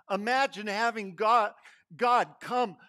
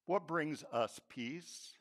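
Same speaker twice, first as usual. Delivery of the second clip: slow whispered question; hushed whisper; 3 semitones lower, 8 dB quieter, slower than usual. Acted. Preacher asking the congregation, a slow hushed whisper. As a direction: whisper it slowly to draw the room in.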